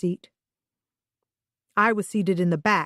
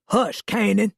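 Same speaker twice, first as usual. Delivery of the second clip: snapping at dog; 3 semitones higher than usual. Acted. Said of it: "a deep voice snapped".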